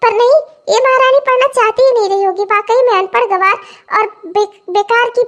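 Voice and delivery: high-pitched, indignant tirade; scolding mother-in-law. Acted. Mother-in-law berating her uneducated daughter-in-law, high scolding.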